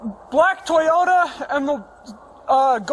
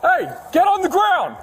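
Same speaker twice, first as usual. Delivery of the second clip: shouted surrender demands; 4 semitones higher than usual. Real, not acted. Officer confronting armed suspect.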